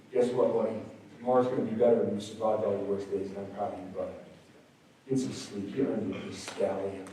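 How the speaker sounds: soft, low and reassuring; soft self-talk. Retold or imitated. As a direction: quietly encourage yourself in the mirror. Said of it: "And I look in the mirror".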